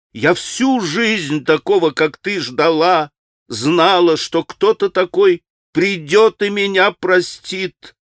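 tearful confession. Acted. Kneeling confession to Alyosha.

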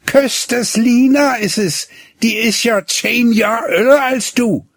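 put-on teasing girl. A narrator's reading. Gretlieschen teases Hinnerk about his older sweetheart. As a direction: needle him about the older bride.

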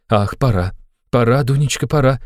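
high, hurried worried mother; nervous mother rushing her daughter; anxious fuss. A narrator's reading. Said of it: "тревожно засуетилась".

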